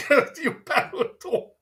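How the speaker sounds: angry. Retold or imitated. Mock rant at chatter.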